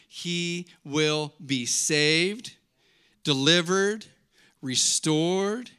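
slow, weighty scripture reading; deliberate preaching. Real, not acted. Pastor repeating Jesus' promise to church, slow and deliberate. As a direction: let each promise land separately. Reads scripture in measured proclamation.

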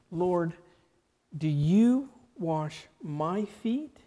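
slow, pleading disbelief; distraught. Acted. Peter to Jesus, slow distraught disbelief. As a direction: Peter aghast his master would stoop. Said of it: "Peter was distraught".

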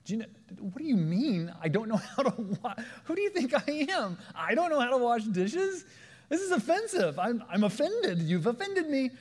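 high, loud, offended squawk; indignant outrage. Retold or imitated. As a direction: play the mayor's wounded pride to the hilt. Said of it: "agitated. He's angry".

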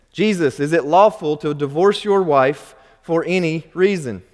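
lightly voiced sly Pharisee asking; a touch of scheming questioner; hint of a crafty Pharisee testing Jesus; Pharisees' question.

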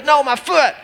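put-on high childish protest; mock toddler whine, pitched high; upset toddler. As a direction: imitate a tantruming three-year-old refusing. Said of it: "And he goes".

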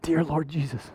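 low, soft mock prayer; quiet "oh no" to himself; hushed dismay. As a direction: mutter it low, half laughing. Reacting to his own yawn.

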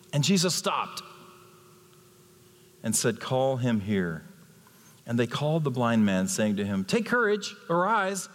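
measured, dramatic Bible reading; scripture reading. Acted. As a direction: read the Gospel passage to the congregation. Reads the scripture passage aloud.

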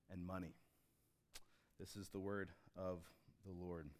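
measured, solemn reading; scripture reading. Acted. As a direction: let each phrase land before the next. Reads scripture aloud.

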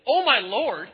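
loud, high indignant outburst; angry God. Acted. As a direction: throw the words back in anger. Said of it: "the first time God gets angry".

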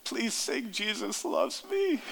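a gentle mock of a tearful child's plea; sobbing little daughter. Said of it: "like, sobbing. She goes".

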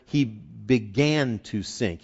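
slow phrase leaning on "began"; stress on began. Shown as a demonstration. Preacher explains the Greek wording, stress on "began". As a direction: draw out "began" to give it the emphasis. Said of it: "the emphasis is on the".

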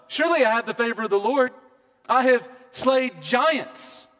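tally up your triumphs like a proud king; boastful king David. Acted. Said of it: "he could have said".

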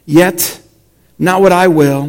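measured public Bible reading with pauses; scripture reading. A narrator's reading. Pastor reading Mark to the congregation, measured scripture reading. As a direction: read it out deliberately, phrase by phrase.

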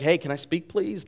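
meekly asking permission, rising on "please"; a timid, polite little interruption; polite request. Acted. Preacher mimics someone politely asking to speak, meek and tentative. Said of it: "This isn't like".

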